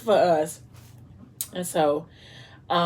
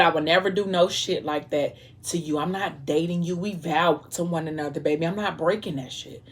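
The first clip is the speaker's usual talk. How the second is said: softer, lower earnest vow; husband's vow; 3 semitones lower, 7 dB quieter than usual. A narrator's reading. Husband tells his wife they vowed to one another, softly earnest. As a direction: promise her quietly and firmly.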